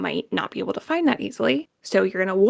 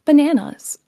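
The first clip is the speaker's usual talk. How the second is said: automated supermarket voice; checkout scanner voice; 4 semitones higher, 5 dB louder than usual. Retold or imitated. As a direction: read it like a till announcement. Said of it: "when you scan something at the supermarket and it says".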